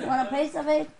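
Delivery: lightly put-on folksy voice; neighbor impression. Neighbor repeating an offer of fish, folksy impression. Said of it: "I talk like the people, the neighbors".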